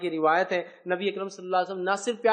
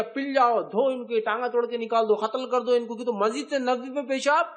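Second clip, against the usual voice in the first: retold angry order; 3 semitones higher than usual. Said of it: "اس صحابہ کو حکم دیا".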